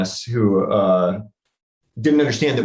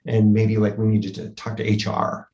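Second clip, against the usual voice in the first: faux serious. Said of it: "faux, serious, sarcastic parody mode".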